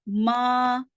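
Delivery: ماں with the long vowel through the nose; students' nasal ماں. Retold or imitated. Teacher copies what some students say, nasalised ماں. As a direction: imitate the mistake, nasalising the aa of ماں. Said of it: "students ہیں وہ کیا کہتے ہیں".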